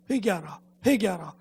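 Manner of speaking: an echoing inner call, imitated in steps of rising volume. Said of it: "이 말이 점점 자기에게 더 크게 다가왔어요".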